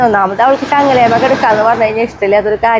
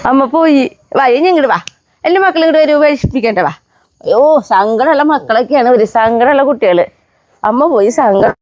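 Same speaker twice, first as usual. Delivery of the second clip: higher, sing-song coaxing of sad puppies; soothing pet talk; 3 semitones higher than usual. Acted. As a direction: call the little ones in tenderly. Coaxing puppies after mother leaves.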